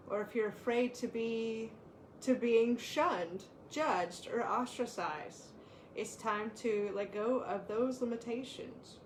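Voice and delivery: calm, measured reading of an oracle card. Acted. Co-host reading the power card aloud, calm and measured. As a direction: read the card's message to the listeners steadily.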